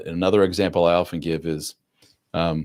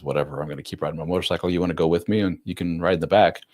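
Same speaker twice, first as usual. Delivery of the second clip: laid-back. Retold or imitated. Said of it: "just laughs it off".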